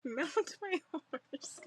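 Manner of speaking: co-host mocks the knight's cheesy line, slow; mocking repeat. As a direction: savour the cheesy line with ridicule.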